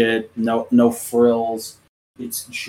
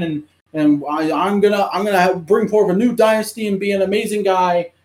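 higher, fast, hammed-up tantrum; mock angry rant; 6 semitones higher, faster than usual. Son telling off Build in the war meeting, hammed-up rant. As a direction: play the entitled son yelling orders. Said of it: "telling off Build and being like".

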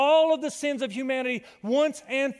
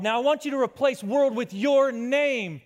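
ordinary delivery

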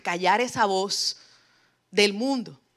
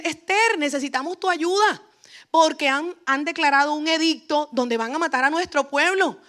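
higher, pleading call to Esther; urgent Mardoqueo; 4 semitones higher than usual. Retold or imitated. Mardoqueo begging Queen Esther to save the people, higher urgent plea. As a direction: beg her to act now, pitch raised.

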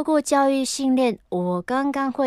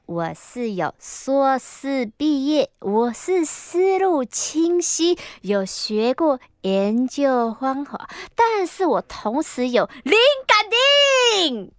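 mystic persona voice; 3 semitones higher, slower than usual. Acted. Reading listener letter, mystic persona.

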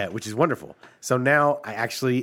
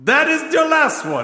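high, loud genie voice; 14 semitones higher, 5 dB louder than usual. Pretend. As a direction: gloat like a sly genie. Genie scene.

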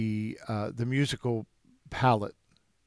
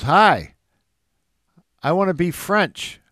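bright, loud, overeager greeting; hammed-up keen student at the door; eager wannabe student; 7 semitones higher, 9 dB louder than usual. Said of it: "and he goes".

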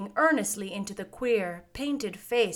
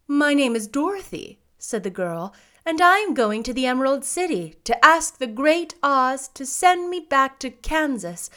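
put-on young girl voice; 4 semitones higher, 6 dB louder than usual. A narrator's reading. Dorothy answers, voiced.

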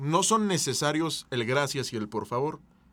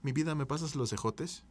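softer, gentle request; soft ask; 5 dB quieter than usual. Shown as a demonstration. Sweet-talking partner for the green beans, softly. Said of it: "no es lo mismo que".

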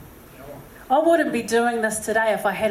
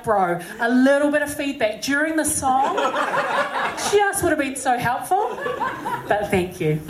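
laughing retort; 4 semitones higher than usual. Retold or imitated. Laughing reply to the bearded man.

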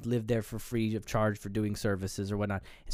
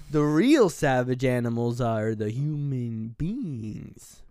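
slow, drawn-out pronouncement; old man's true character; slower than usual. Retold or imitated. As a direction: deliver it as a weighty old man's verdict. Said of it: "you can see his true character".

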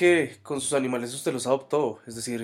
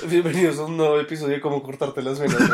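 laughing intro. Real, not acted. Parody intro, both laughing.

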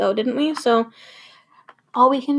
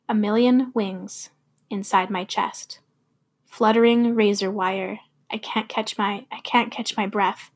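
poem recitation. Acted. Recites a poem about withdrawal.

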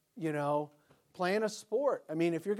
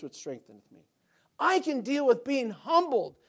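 preaching at full force; 5 semitones higher, 10 dB louder than usual. Acted. Pastor proclaiming Paul's verse to the congregation, loud and high. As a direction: proclaim Paul's words like a battle cry.

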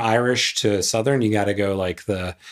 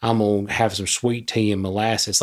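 Southern accent laid on, Georgia style; 2 semitones lower than usual. Shown as a demonstration. Podcaster showing which Southern accent won't work, Georgia accent. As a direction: do a syrupy sweet-tea Georgia accent. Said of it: "the Georgia doesn't work with Southern accents".

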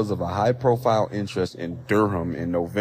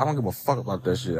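fast, blunt, a bit softer, with "fuck" said outright; uncensored version; 3 dB quieter, faster than usual. Shown as a demonstration. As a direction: rattle it off quickly and swear for real on "fuck". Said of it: "I gotta say fuck".

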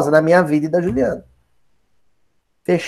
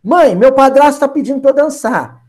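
lightly voiced daughter, higher pitch; Salomé asking her mother; 6 semitones higher than usual. Salomé tells her mother about stepfather's request, lightly voiced daughter. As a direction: call to mum with a lift in pitch. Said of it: "a Salomé falou assim".

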